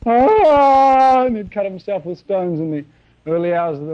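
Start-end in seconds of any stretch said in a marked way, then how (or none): 0.0-1.3 high, loud wild mock scream; maniac scream. Preacher acting out the Gadarene maniac, wild high scream. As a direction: let out a wild madman's howl. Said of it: "He lived up there in the graveyards".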